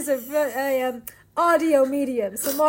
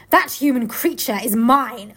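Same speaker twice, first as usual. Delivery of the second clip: witch voice; 3 semitones lower, slower than usual. Acted. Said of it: "continued the witch".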